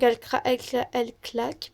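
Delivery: trips on "elle claque", restarting "cla-" twice; stumbling over words. Real, not acted. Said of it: "pardon, elle, je vais y arriver".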